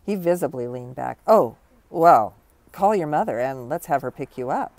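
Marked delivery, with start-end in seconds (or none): 1.2-4.7 alarmed. Acted. Alarmed principal sends her home.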